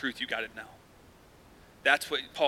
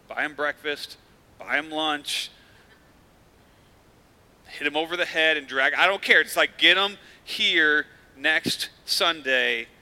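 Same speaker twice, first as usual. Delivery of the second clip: louder, with a slow, drawn-out get 'em here next Sunday; emphatic urging; 5 dB louder than usual. Real, not acted. Pastor urging the congregation to bring guests, emphatic. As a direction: push it hard, like a pastor who means it.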